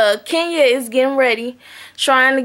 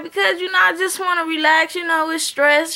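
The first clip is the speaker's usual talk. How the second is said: higher-pitched retold excuse; imitated husband's excuse; 4 semitones higher than usual. Husband telling wife why he's staying longer, imitated excuse. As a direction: lightly mimic him explaining himself, pitched up.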